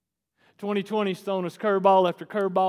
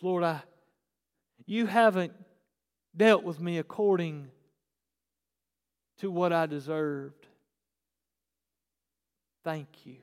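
sincere prayer. Shown as a demonstration. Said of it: "Here's how the sentence goes".

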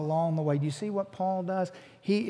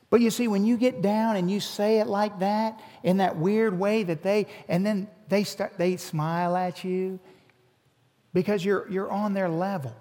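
ordinary talk

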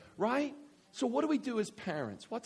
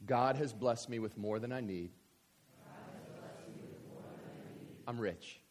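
congregational recitation; 7 semitones lower, 4 dB quieter than usual. Shown as a demonstration. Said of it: "repeat after me".

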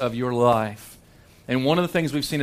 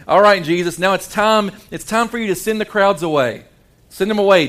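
higher, louder, pressing Jesus to wrap it up; impatient urging; 4 semitones higher, 3 dB louder than usual. Acted. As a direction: push him to send the crowd home. Disciples urging Jesus to dismiss.

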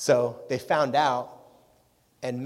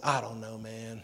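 lightly imitated Southern US accent; 5 dB quieter, slower than usual. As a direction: put on a hint of a Southern accent. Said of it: "kind of a southern accent".

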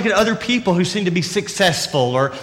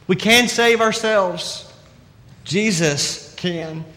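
slow emphatic contrast; slower than usual. Real, not acted. Contrast point in sermon.

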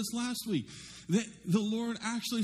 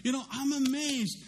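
cheering approval; 6 semitones higher than usual. Retold or imitated. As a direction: cheer like a proud parent. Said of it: "approval and say".

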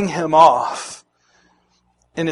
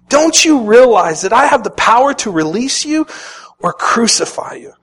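louder, higher threat of power; demanding Pilate; 5 semitones higher, 4 dB louder than usual. Retold or imitated. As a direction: lean on power to release or crucify. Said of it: "Pilate demanded".

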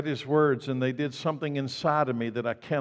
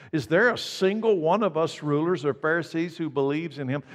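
condescending Pharisee challenge, pitched higher; talking down; 3 semitones higher, 3 dB louder than usual. Acted. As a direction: talk down to underlings, voice raised in pitch. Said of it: "how they're talking down to them".

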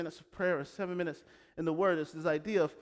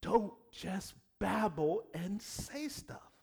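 voicing Jesus; slower than usual. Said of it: "Jesus says".

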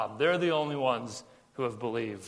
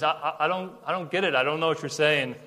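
confused; 3 dB louder than usual. Retold or imitated. Nicodemus admitting to Jesus he is lost, confused. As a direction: stumble over it, lost. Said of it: "he's confused".

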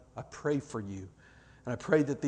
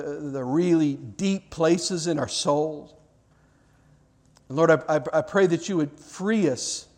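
earnest pastoral prayer voice; closing prayer. Acted. Pastor praying over the congregation at the close, earnest prayer. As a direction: pray it over the room, sincere and unhurried.

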